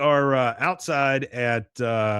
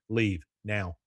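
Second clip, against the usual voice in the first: imitated curt dismissal; 2 semitones lower, 4 dB quieter than usual. Class leader ordering Joseph out, imitated curt dismissal.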